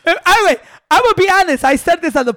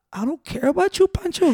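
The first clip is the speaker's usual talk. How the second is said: softly imitating a drunk, choked-up friend; retold heartfelt confession, kept soft; mock tender drunk voice; drunk emotional; 3 semitones higher, 6 dB quieter than usual. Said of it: "shit was getting emotional".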